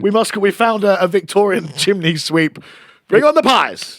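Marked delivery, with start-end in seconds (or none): 3.1-4.0 put-on old london cockney. Introducing Victorian chimney sweep.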